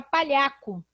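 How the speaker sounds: palhaco with a hard k sound; wrong reading. Shown as a demonstration. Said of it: "vai ficar".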